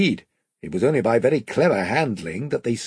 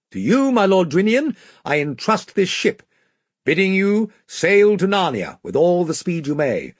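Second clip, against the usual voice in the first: higher, louder king voice; commanding young king; 6 semitones higher, 3 dB louder than usual. A narrator's reading. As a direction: address the assembled crew as their king. King's formal speech to crew.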